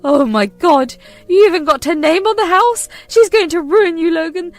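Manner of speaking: high, loud outraged warning; shrill alarm at her name on the deed; furious mother. Acted. Mother raging at son about wife.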